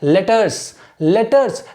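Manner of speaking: "Letters" with a short first vowel; model pronunciation. Shown as a demonstration. Teacher showing students "Letters", model pronunciation. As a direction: say "Letters" as a careful model word. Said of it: "आप ध्यान से सुनिए इसको".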